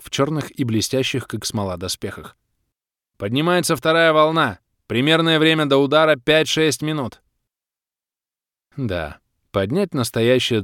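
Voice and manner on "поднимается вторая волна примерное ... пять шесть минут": high, raised voice of a scout; shouted report. A narrator's reading. Player warning the clan of the second wave, shouting. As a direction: report urgently. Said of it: "выкрикнул неизвестный мне игрок неспящих".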